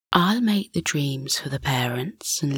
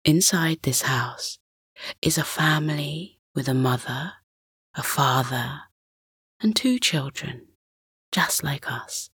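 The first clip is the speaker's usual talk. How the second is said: soft hushed whisper; hushed suspense; 4 dB quieter than usual. Acted. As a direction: whisper so the sleepers don't wake. Father explaining quietly to son at night.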